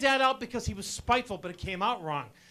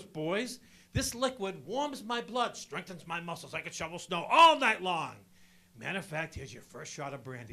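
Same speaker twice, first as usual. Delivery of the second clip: deep-voiced dad; 5 semitones lower than usual. Dad's voice retold.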